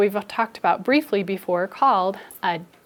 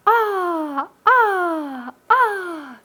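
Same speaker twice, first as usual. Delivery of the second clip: swinging letter O; 9 semitones higher, much slower than usual. Acted. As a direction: whoop like a kid flying on a swing. Letter O swinging, kids echo.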